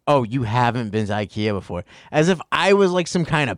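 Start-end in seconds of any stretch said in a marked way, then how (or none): 0.1-1.8 a light snooty clerk, "Oh" falling and drawn; mock condescending. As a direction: look down on the newcomer, mildly. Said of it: "It's just like".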